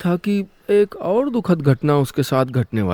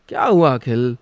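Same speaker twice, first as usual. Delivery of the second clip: a little irritated; 4 semitones lower than usual. Acted. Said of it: "Parul थोड़ा चिढ़ते हुए बोली".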